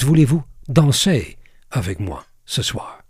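French lyric with a light English accent; French words in an English speaker's mouth. Shown as a demonstration. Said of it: "Ik doe het een beetje met een Engels accent".

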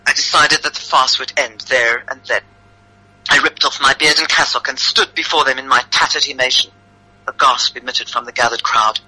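measured, deliberate storytelling; story narration. A narrator's reading. Author reads her tale to the hosts, measured narration. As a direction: narrate it evenly, phrase by phrase.

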